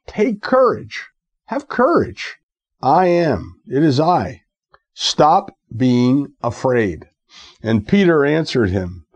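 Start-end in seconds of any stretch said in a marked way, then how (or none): 0.1-7.1 Jesus. Retold or imitated. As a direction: urge them firmly, ending slowly on each word. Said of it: "he spoke to them, saying".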